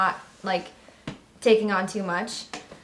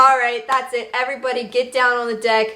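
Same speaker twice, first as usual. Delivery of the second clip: slightly raised, firm command; mock drill instructor; 3 semitones higher, 4 dB louder than usual. Instructor ordering laughing recruits down, mock-stern command. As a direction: imitate an instructor who has had enough. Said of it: "he's like".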